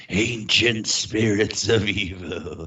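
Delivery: slow, drawn-out evil incantation; faint voice. Pretend. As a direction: intone it like an ancient spirit. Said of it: "a faint voice from her crotch going".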